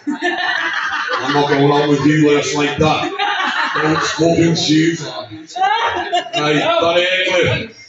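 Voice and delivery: slow, laughing mock sass; laughing quote. Sister quoting her brother's styling orders while laughing. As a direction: act out his bossiness through laughter.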